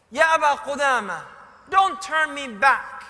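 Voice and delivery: insistent plea. Retold or imitated. Boy pleads not to be refused.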